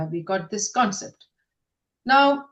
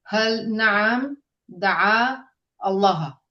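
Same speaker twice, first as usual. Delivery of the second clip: staccato; much slower than usual. Shown as a demonstration. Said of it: "we are reading it separate".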